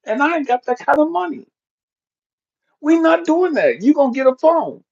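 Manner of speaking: rising, exasperated dad lecturing his daughter; scolding dad. Retold or imitated. Father telling daughter no iPhone, rising exasperation. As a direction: lay down the law to your kid.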